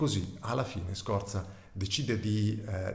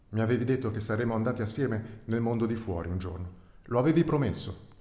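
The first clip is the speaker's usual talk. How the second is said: put-on pleading young calf; 3 semitones higher, 4 dB louder, faster than usual. The calf reminds the rat of his broken promise, mild pleading. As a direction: remind him of the promise, pushing harder.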